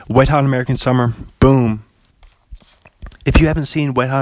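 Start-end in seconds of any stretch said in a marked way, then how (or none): 0.1-1.8 excited reveal. Acted. Drum roll reveal.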